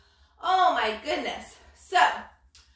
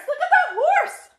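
much higher, laughing look-at-that; laughing call; 5 dB louder than usual. Real, not acted. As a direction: giggle while pointing it out. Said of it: "laughing pointing at picture".

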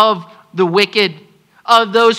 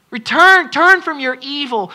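stronger call; 5 semitones higher than usual. Acted. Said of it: "repeated plea".

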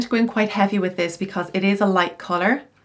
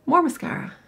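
Michelle imitation; 10 semitones higher, faster than usual. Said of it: "whenever I asked her".

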